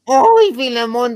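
high, slow, loud moaning call; hammed-up moan of a name; mock moaning woman. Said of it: "decía la otra". (gemido fingido, agudo y lento)

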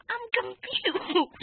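high, loud, slow hammed-up confusion; mock confusion. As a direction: drag it out, high and loud, like a clown. Forgets why they fought.

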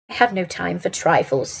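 curt, understated dismissal; brusque. Acted. Holmes brushes off Watson's question, brusque. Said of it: "he answered brusquely".

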